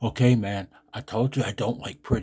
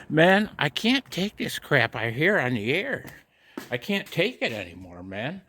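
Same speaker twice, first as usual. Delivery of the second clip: frustrated; 5 semitones higher than usual. Real, not acted. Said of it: "I just get so freaking frustrated".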